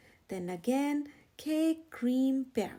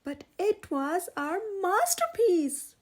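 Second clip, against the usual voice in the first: moaning; 6 semitones higher, 8 dB louder than usual. A narrator's reading. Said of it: "moaned Turtle".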